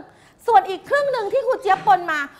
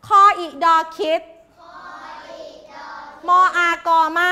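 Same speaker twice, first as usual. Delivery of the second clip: measured letter-by-letter chant for the class; spelling drill. Shown as a demonstration. Teacher leading pupils in reading aloud, chanted spelling. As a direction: spell it out rhythmically, then land on the word. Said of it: "ก่อนจะดูอ่านก่อน".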